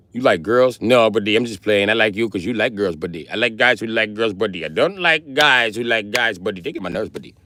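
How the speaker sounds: chatty imitation Indian accent; mock Indian accent. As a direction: rattle on in a put-on Indian accent. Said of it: "you got a fucking Indian accent".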